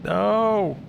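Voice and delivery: high panicked shout; panicked cry. Real, not acted. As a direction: yell out in sudden fright. Character nearly dies.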